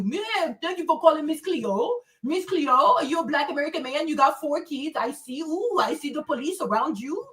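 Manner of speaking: mock Jamaican psychic reading the caller's fortune; Miss Cleo impression. Mocking the psychic hotline caller in a Jamaican accent. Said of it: "Even Miss Cleo can know a lot of shit about you".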